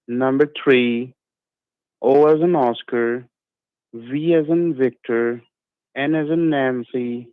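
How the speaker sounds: slow, careful spelling out; dictating. Real, not acted. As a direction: read each letter back slowly. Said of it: "Now read it back to me".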